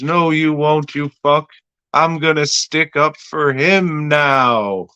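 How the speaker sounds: imitating a defiant woman; mock defiant lady. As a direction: stand up to him, hammed-up and high. Acts the lady defying the boss.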